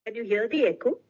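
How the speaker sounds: delayed echo over a bad call line. Real, not acted. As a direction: voice bouncing back with a lag. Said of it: "there is a lag and echo".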